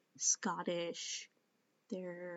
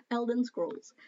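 laughing at your own slip; 4 semitones higher, 4 dB louder than usual. Real, not acted. Speaker mocks their own mixed-up game title, laughing. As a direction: repeat the botched name through laughter.

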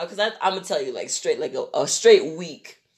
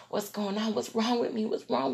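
softer, raised fretful questioning; acted panic; 4 semitones higher, 8 dB quieter than usual. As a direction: fret in a small worried voice. Acts out dazed ambulance panic.

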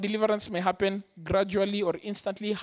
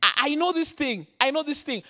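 raised pitch, stammered alarm; fearful recognition; 6 semitones higher, 3 dB louder than usual. Retold or imitated. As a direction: relive the dread as you retell it. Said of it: "The intense fear".

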